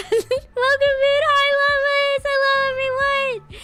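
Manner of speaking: high, cheery welcome to chat; high cutesy hello to viewers; bright stream greeting. Real, not acted.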